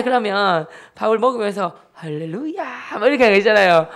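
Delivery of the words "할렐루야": slow, drawn-out mock praise rising high; teasing hallelujah. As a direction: imitate a sister's taunting piety. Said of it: "이렇게 놀리는".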